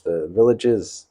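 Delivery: "the villages" said slowly, leaning on the plural "villages"; stress on villages. Real, not acted. Vlogger correcting himself to his viewers, slowly stressing "villages". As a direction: correct yourself and stretch out "villages".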